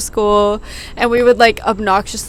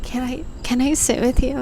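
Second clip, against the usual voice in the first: slightly raised, hesitant imitation; shy little girl; 3 semitones higher than usual. Friend imitates shy new girl at lunch, timidly. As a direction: imitate a timid request, stumbling at the start. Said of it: "like, a little shy girl".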